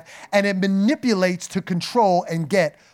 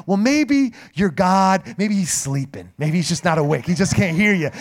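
mocking taunt. Elijah taunting the prophets.

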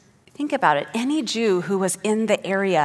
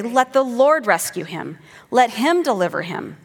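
mocking taunt; 4 semitones higher, 4 dB louder than usual. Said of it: "they say".

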